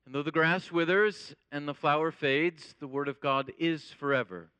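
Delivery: measured, reverent Bible reading; scripture reading. Acted. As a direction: read it like Scripture from the pulpit. Reads scripture before the sermon.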